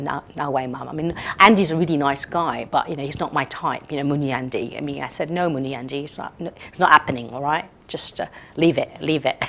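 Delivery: tough Malaysian Indian girl, lightly voiced; Malaysian Indian girl accent. A Sentul girl refusing her mother's match, Malaysian accent. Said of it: "And she's like that".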